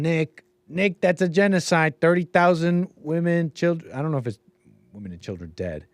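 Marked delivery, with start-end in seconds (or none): 0.0-3.9 higher-pitched mock pleading; imitated protesting callers. Host imitating callers who object, mock insistence. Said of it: "they're saying".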